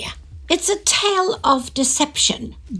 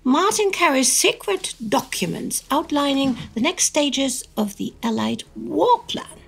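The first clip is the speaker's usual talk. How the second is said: serious newsreel narrator voice; dramatic narration. Acted. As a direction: read it like a wartime newsreel.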